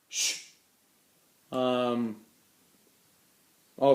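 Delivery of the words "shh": hushed shh at the dog; shushing. Real, not acted. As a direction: hush the dog quickly. Hushing noisy dog.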